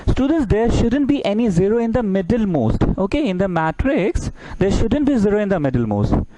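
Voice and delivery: lightly put-on proper English, said slowly; formal English version. Shown as a demonstration. Teacher repeats the rule in formal English, slow and lifted. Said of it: "अच्छा, English में बोल दे।".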